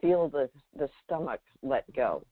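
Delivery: guided relaxation. Acted. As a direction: ease the listener into the body, one cue at a time.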